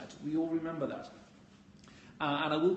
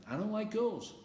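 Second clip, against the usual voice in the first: playful tease; 6 semitones higher than usual. Shown as a demonstration. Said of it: "sometimes I'll leave it open".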